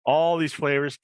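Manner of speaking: upbeat host selling a drink; live ad read. Acted. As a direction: pitch it like a live commercial.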